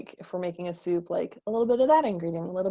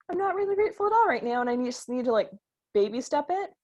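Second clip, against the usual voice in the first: reluctant admission; 5 semitones higher than usual. Retold or imitated. Imitating an ungrateful listener.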